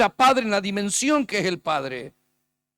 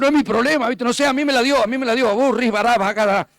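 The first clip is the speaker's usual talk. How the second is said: desentendido, imitado; 3 semitones higher, 5 dB louder than usual. Retold or imitated. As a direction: brush off the complaint, then break into mock tongues. Acts out brushing off the complainer. (desentendido y en voz alta, en broma)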